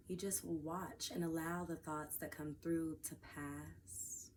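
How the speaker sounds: unhurried guided meditation voice with long pauses. Acted. Teacher guides listeners to watch thoughts and breath, guided meditation. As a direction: ease listeners into awareness, leaving space between phrases.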